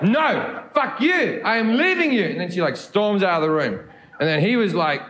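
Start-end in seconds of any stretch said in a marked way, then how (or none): 0.1-2.2 higher, defiant South African woman; South African accent. Acted. Girlfriend leaving boyfriend mid-row, defiant South African accent. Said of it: "I will now be doing a South African accent".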